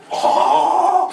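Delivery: a sudden high, loud "Oh"; high outraged oh. Acted. Mother protesting the father's silence, outraged.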